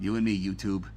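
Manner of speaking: low, put-on Chicago accent; Untouchables accent. Host addressing YouTube viewers, in a low Untouchables accent. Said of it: "sort of my Untouchables accent".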